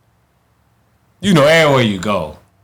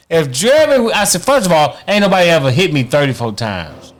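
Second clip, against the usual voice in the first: high, emphatic retold protest; indignant disbelief; 6 semitones higher than usual. Boxer disputing a thirty-four to sixteen loss, indignant. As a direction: dispute it in a raised pitch.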